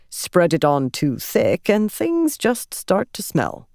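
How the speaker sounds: slow, refined, dryly amused; young ardent joking to relax her; wry young ardent. Acted. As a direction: deliver the manure joke with dry relish.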